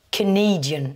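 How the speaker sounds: Canadian with schwa start, NA stressed; stress on second syllable. Shown as a demonstration. Teacher gives the nationality to learners, caNAdian stressed on NA. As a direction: lean on the NA in Canadian. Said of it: "sur la deuxième syllabe".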